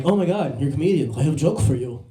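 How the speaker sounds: comic imitation of a Serbian-accented driver; mock Serbian accent, eager to tell a joke. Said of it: "That's a Serbian accent".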